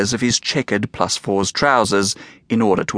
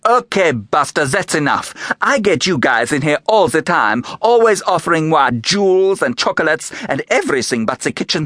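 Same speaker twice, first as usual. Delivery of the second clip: sassy, indignant performer voice, rising higher; brassy showgirl; 5 semitones higher than usual. Acted. Fifi defending her act to the visitor, brassy and indignant. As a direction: bristle and brag like a vaudeville star.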